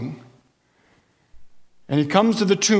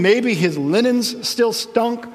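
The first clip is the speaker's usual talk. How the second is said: wry joke; 6 semitones higher, much slower than usual. Real, not acted. Joking aside about the smell.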